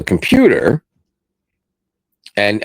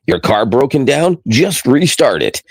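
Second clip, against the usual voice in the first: lightly put-on radio pitchman, pitched up; a hint of radio announcer salesmanship; 4 semitones higher than usual. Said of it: "I gotta do the radio voice and say".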